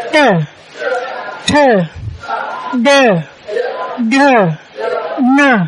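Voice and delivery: tờ, đờ, nờ with the tongue curled back; retroflex series. Shown as a demonstration. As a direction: separate drill syllables tờ, đờ, nờ, long pauses between. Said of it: "đọc âm uốn lưỡi".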